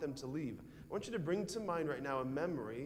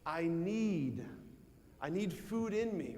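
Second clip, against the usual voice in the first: hungry belly voice; slower than usual. Pretend. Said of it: "Your belly's saying".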